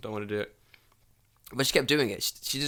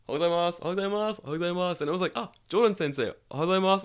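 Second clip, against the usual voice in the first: put-on high, quick chorus of old villagers; sing-song greetings from every old neighbour; old people greeting; 7 semitones higher, much faster than usual. Old villagers greeting the teacher, high and quick. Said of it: "next day".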